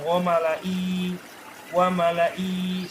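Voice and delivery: slow "wa malai" cut off on a long i; wrong reading. Shown as a demonstration. Teacher shows students the wrong form, drawn-out "wa malai". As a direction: drag "wa malai" without the final hi.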